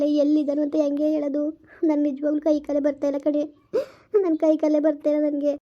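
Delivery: weeping, helpless lament; tearful lament. Acted. Mother lamenting her misfortunes to her friend, tearful. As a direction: pour out grief through tears. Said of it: "ಅಳ್ಬೇಡ ಸುಮ್ನಿರೆ".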